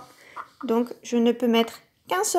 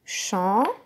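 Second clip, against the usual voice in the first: syllable by syllable; 2 semitones lower than usual. Shown as a demonstration. Teacher claps "Champignon" together with the child, syllable by syllable. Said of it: "Encore une fois".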